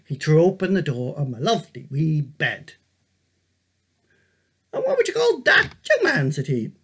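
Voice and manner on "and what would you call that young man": a hint of an old man, higher on the question; gently quizzing grandfather; lightly voiced old man. A narrator's reading. Grandfather teasing the boy with a riddle, lightly voiced.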